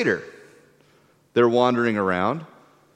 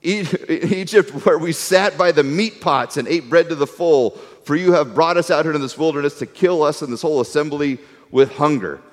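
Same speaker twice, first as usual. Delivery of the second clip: grumbling lament; 4 semitones higher than usual. Retold or imitated. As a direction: moan it like a hungry crowd. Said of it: "the people of Israel said to them".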